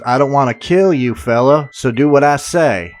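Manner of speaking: put-on the masked man threatening the young man in a clumsy Southern accent; bad southern accent. Masked stranger warning Hollis at the car, in a bad put-on Southern accent. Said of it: "Yes, that was a horrible southern accent".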